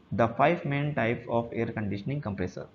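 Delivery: reading the heading word by word, slowly; slow slide reading. Acted. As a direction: spell out the slide title slowly for students. (धीमे-धीमे slide पढ़ना)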